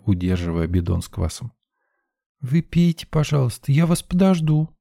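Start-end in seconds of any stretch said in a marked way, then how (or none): 2.4-4.7 high, small insistent voice; stubbornly polite child; piping little girl. Acted. Girl insisting to the narrator, piping. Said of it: "пискнула она".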